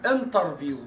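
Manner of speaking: "انترفيو" with an emphatic Arabic ط; heavy Arabic T. Shown as a demonstration. Teacher showing students the faulty form, heavy T. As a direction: thicken the T of "انترفيو" into ط. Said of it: "تنطقها انترفيو بحرف الطاء كده".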